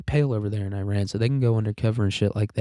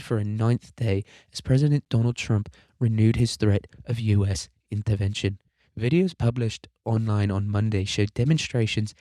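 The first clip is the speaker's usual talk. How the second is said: attempted British newsreader accent. Shown as a demonstration. Podcaster trying out a British reporter voice on a news article, amateur British accent. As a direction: read it in a so-so put-on British accent. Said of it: "I can do a British accent".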